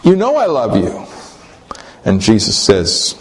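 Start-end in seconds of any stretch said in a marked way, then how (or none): 0.0-1.1 agonized. Retold or imitated. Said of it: "in agony".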